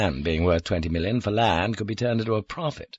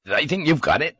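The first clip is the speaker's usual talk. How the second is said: high-pitched, disbelieving question; incredulous, pitched up; 7 semitones higher, 4 dB louder than usual. A narrator's reading. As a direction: ask it in raised disbelief. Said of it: "he asked incredulously".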